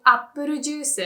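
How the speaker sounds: apple juice as appuru juusu; apple juice with Japanese syllables, final su; Japanese pronunciation. Shown as a demonstration. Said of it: "Japanese people also say".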